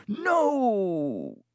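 high desperate yell. A narrator's reading. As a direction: yell it out to stop him.

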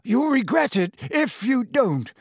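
high, pressing plea; begging Harry to listen, urgent. A narrator's reading. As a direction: make him listen, urgently. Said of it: "a note of urgency in his voice".

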